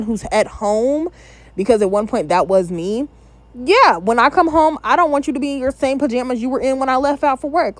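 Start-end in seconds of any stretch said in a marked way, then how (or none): 3.5-7.8 spouse's complaint. Acted. Voices a spouse's demand.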